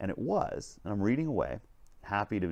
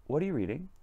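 put-on higher, lightly childlike question; little girl; 10 semitones higher, 4 dB louder than usual. Little girl asking a stranger about the book, curious. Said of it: "this little girl comes in".

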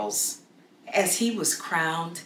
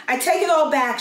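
frightened pleading; 8 semitones higher, 5 dB louder, faster than usual. A narrator's reading. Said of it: "Joan's courage failed".

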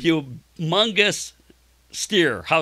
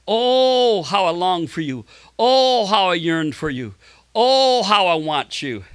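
long, drawn-out "oh" falling away in longing; yearning prayer. Acted. Preacher voicing the psalmist's cry to God, yearning.

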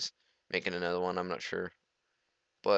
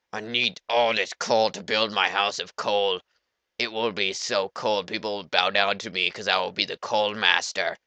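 mock-grand coal master. Pompous bit as coal master.

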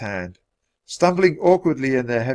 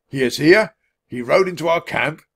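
raised, incredulous questions; alarmed disbelief; 5 semitones higher, 4 dB louder than usual. A narrator's reading. Centurion hearing of the rider, incredulous. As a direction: echo it back in disbelief.

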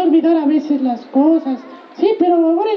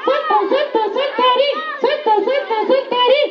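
muffled, hand over mouth; 6 semitones higher than usual. Real, not acted. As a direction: speak through your hand. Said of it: "estaba con la mano en la boca". (con la mano en la boca)

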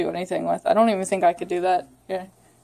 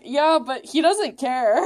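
laughing; 2 semitones higher, slower than usual. Retold or imitated. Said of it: "I'm like".

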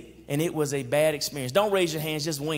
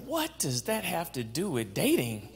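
mock congregation question. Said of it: "Now y'all saying".

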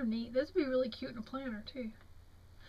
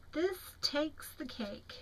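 slow reading; 4 semitones higher, slower than usual. Real, not acted. Reading the card slowly.

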